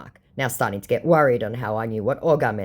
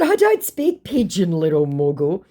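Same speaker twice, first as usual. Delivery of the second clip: high start dropping to a put-down; mock taunting; 3 semitones higher, 3 dB louder than usual. Baiter belittling the scammer, mock taunting. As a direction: tease with exaggerated denial, then drop.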